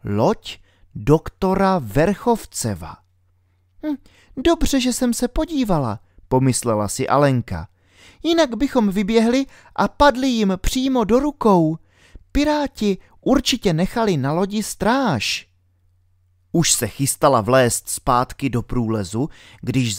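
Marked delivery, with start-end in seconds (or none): 3.9-6.0 put-on high girl's voice, worried; little girl Alenka. A narrator's reading. Alenka whispers her worry to herself, in a high girl's voice. 8.2-15.5 put-on high girl's voice, worried; little girl Alenka. A narrator's reading. Alenka whispers her worry to herself, in a high girl's voice.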